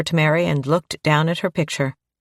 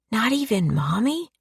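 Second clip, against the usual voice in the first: put-on little girl voice; 6 semitones higher than usual. A narrator's reading.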